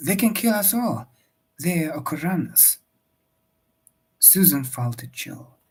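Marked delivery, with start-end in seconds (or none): 0.1-2.8 urgent warning. Acted. Servant warning of deadly raiders.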